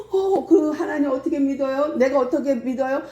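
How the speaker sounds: high-pitched, earnest pleading question; acted eager listener begging to know; eager convert. Acted moved listeners ask how to believe.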